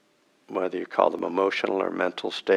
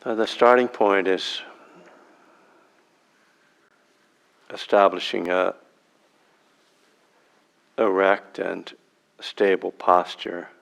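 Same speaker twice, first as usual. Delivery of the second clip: unhurried meditation guide, long silences between phrases; spacious, measured meditation instruction with long pauses; guided meditation. Real, not acted. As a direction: guide them into sitting, phrase by phrase.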